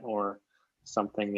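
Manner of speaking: usual speaking voice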